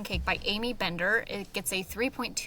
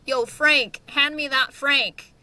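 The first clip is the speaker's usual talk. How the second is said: a lightly voiced buddy calling out, higher and louder, slowing on the second line; casual call to a buddy; 5 semitones higher, 8 dB louder, slower than usual. Character calls to his buddy Frank for the hot dogs, lightly voiced and casual. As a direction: toss it across the kitchen like you're asking a pal for a favor. Acted example of dialogue.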